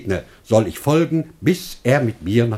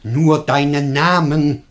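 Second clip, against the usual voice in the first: much higher, urgent and solemn; earnest pleading; 6 semitones higher, 4 dB louder than usual. Acted. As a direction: swear it eagerly to win him over. Master swears, pleading.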